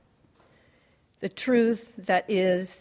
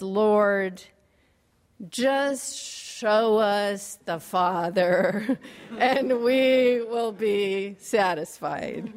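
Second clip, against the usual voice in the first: exasperated plea; much slower than usual. Acted. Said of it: "responded with exasperation".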